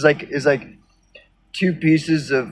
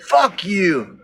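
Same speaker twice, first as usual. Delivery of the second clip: higher, hammed-up indignant rant; mock angry BitChuter; 4 semitones higher than usual. Imitating angry BitChuters cursing him out, mock outrage. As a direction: play an outraged fan, half-mocking. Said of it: "they all just get".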